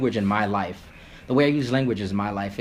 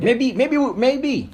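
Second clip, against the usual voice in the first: emphatic maybe; 13 semitones higher, 5 dB louder, much slower than usual. Real, not acted. Excited emphatic repeat of maybe.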